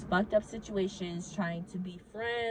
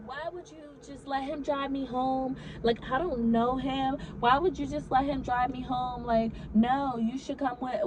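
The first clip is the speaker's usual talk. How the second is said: mild mock outrage, pitched higher; retold yelling; 4 semitones higher than usual. Friend protests being driven home by a stranger, mildly mock yelling. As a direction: imitate an upset friend, without full volume. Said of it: "I hear this yelling".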